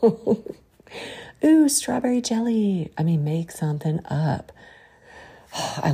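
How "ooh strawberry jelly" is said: high, exclaimed silly substitute swear; playful mock swearing. Shown as a demonstration. Preacher offering clean swear words, playful high exclamation. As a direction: squeal it as a pretend cuss, pitched way up.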